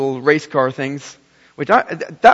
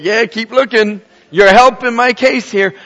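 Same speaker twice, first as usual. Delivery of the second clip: put-on smug kid; 5 semitones higher, 7 dB louder than usual. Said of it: "he's like".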